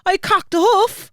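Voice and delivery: high, loud, slow attempt at Cork; Cork accent. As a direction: draw it out in a mock Cork accent. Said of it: "your best Cork accent".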